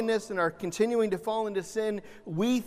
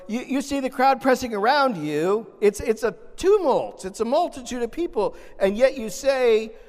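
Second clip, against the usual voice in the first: incredulous disciples; 5 semitones higher, 5 dB louder than usual. Retold or imitated. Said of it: "They're like".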